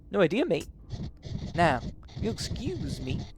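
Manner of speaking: chirpy-pitched mock-Liverpool postman; bad famous-drummer accent. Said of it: "he's gonna sound like a famous drummer".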